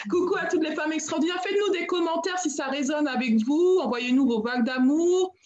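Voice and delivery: high, lilting greeting to listeners; cheery shout-out. Real, not acted. Host greeting all the women listening, high cheery shout-out.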